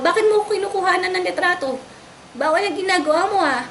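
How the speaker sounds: retold yelling. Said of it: "Nagsisigaw po ako doon".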